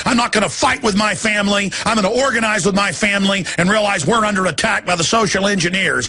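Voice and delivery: rising shouted pep talk, fast and high; pumped-up mirror chant; fired-up self-talk. Pretend. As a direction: psych yourself up in the mirror, teeth showing. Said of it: "staring at yourself in the mirror and showing some teeth and saying".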